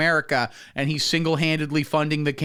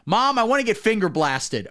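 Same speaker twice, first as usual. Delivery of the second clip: lightly voiced teen, higher pitched; teenager asking parents; 7 semitones higher than usual. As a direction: pitch it up as a kid asking mom. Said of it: "you go to your parents and go".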